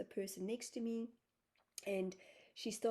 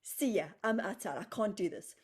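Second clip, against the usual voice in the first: louder mock-panicked call to the group; panicked outburst; 2 semitones higher, 9 dB louder than usual. Telling the group in the pyramid she's leaving, panicked and louder. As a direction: bail out loudly, half laughing at yourself.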